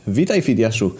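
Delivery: lofty, overblown greeting; exaggerated solemnity. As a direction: declaim it with mock grandeur. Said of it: "z przesadną podniosłością".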